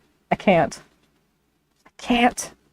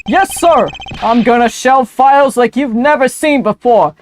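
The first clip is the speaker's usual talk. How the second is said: high, loud eager sidekick; eager detective voice; 6 semitones higher, 6 dB louder than usual. Acted. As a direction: gush it out eagerly.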